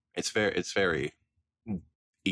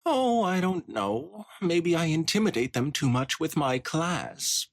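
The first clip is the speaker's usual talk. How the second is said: snooty pony matron; 5 semitones higher than usual. Acted. Spoiled Rich boasting about the spa ponies, lightly haughty. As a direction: play it like a spoiled socialite bragging.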